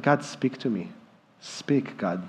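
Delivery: soft breathy hush, barely voiced; whispered prayer. Real, not acted. Whispered prayer after question.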